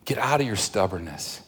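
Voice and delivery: soft, hushed, pleading call to follow; gentle voice of the Lord. Acted. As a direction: coax them softly, like a patient shepherd. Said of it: "where is he saying".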